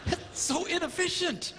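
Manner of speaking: high, laughing mock disbelief; hammed-up baffled husband; baffled guy. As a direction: sputter like a puzzled engineer. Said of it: "a guy looks at that and goes".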